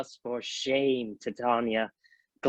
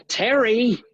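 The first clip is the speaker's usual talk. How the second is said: commanding call; 2 semitones higher, 3 dB louder, slower than usual. Acted. Oberon commands Titania to stay.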